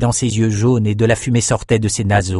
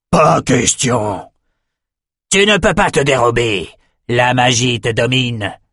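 bien plus haut, il commande avec force; ordre impérieux; 3 semitones higher than usual. Acted. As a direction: exige l'obéissance. Outros refuse le refus. (voix de commandement haute)

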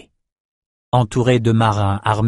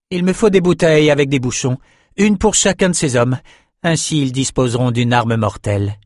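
resolute sorceress, higher pitch easing down; lightly voiced sorceress; 3 semitones higher than usual. Sorceress requesting bottles from the captain, lightly voiced, commanding. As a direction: issue orders in a slightly raised character voice.

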